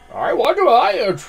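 high, slow customer voice. Acted. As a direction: ask meekly as a customer. Customer voice in game.

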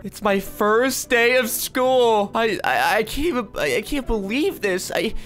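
put-on high, gushing five-year-old excitement; excited schoolkid. Five-year-old on first day of school, excited. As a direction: play a little kid thrilled and stretching the key words. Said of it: "I'm so excited".

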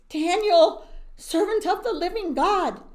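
loud, high call down into the pit; king shouting down to Daniel at dawn; yelling down. Acted. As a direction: call down into the lions' den. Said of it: "he yelled down".

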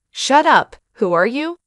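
loud, high angry outburst; blurted out. A narrator's reading. Brother challenging a stranger who intervened, angry blurt. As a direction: blurt it out, easing on the question. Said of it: "my brother blurted out".

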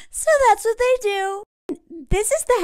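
high, giggling delivery; laughing through words. Real, not acted. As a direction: talk while still cracking up. Still laughing after the joke.

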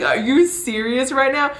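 high, incredulous retort; mock incredulity. Heroine answering three men's proposition, incredulous. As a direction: imitate someone who cannot believe it. Acted reaction to harem proposition.

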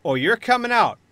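loud threat settling into cool advice; threatening villain. Acted. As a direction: press the ultimatum, then ease off. Villain threatens the trapped group.

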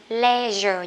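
LEISURE as "LEH-zher"; short E in LEISURE; British leisure. Shown as a demonstration. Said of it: "Hay là sẽ đọc là gì đây". (đọc LEISURE kiểu Anh, "le-giơ")

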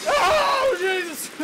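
high loud shriek; startled shriek. Real, not acted. Gamer shrieks at a jump scare.

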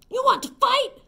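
high, loud challenge; grouchy shout. Acted. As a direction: call out like a cocky bully. Grouchy ladybug picks fights.

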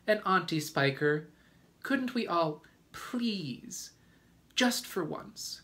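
put-on high-pitched, tearful little boy begging; pleading cry. A narrator's reading. James begging his aunts for a seaside trip, pleading. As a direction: plead in a small boy's high voice. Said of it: "James cried out".

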